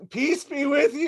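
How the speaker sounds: high-pitched battle cry in play; mock yelling. Teenagers yelling at the boats, high mock yell. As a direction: cry it out high, like a zealot charging. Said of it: "they're just yelling".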